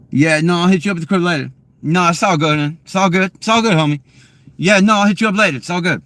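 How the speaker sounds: high, rapid-fire homie talk; quick Ebonics. Shown as a demonstration. Showing chat Ebonics as quick talking, fast high accent. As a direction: rattle it off in quick imitated Ebonics. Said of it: "it's just quick".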